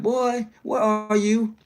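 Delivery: high, slow motherly scold; mock stern mama asking where he is; a hint of a worried mother calling; imitating Pam. Mother figure scolding on phone.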